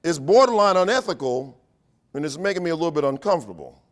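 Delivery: an educator silently alarmed; mock scandalized thought; inner protest. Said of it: "I'm thinking".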